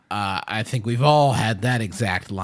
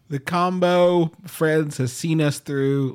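mock eulogy; 6 semitones higher, 3 dB louder, slower than usual. Eulogy for the combo.

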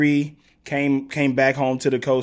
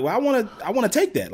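put-on whiny kid; 9 semitones higher, faster than usual. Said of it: "I'm like".

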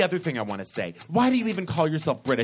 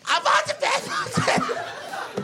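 much higher, very slow hammed-up Irish voice; Irish accent; much slower than usual. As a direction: drag out a silly Irish plea. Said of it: "in an Irish accent".

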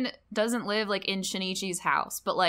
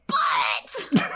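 sudden realization; 9 semitones higher, 5 dB louder than usual. Retold or imitated. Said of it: "she's just like".

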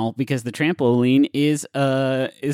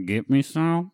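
vocal fry; 5 semitones higher, slower than usual. Pretend. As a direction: lean in lazy and suggestive. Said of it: "the slowness and the register you're in".

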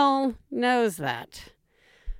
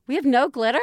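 disbelieving question; 3 semitones higher, much faster than usual. Retold or imitated. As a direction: echo it back in mild disbelief. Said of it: "She's like, "Oh, okay".

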